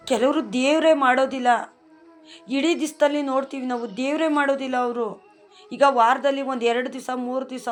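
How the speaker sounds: a devotee griping that the lazy get blessed; indignant complaint. Acted. Worshipper complaining to God about others, indignant and loud.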